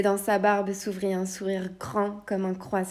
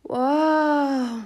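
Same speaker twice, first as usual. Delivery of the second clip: amazed wow; 7 semitones higher, 6 dB louder than usual. Acted. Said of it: "fit le lutin".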